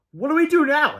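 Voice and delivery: high, loud worry; panicked question. A narrator's reading. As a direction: ask helplessly in alarm. George panics.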